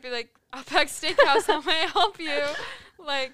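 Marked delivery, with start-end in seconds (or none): 0.5-2.4 louder, lifted restaurant phone greeting; phone greeting, no accent. Acted. Restaurant worker answering a caller, upbeat phone greeting. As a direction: answer the phone brightly without putting on an accent. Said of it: "I never did".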